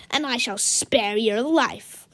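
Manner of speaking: haughty command. Acted. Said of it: "he commanded".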